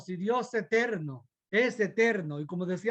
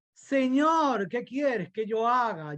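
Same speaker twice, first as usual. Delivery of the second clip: Saul surrendering; 4 semitones higher, slower than usual. Acted.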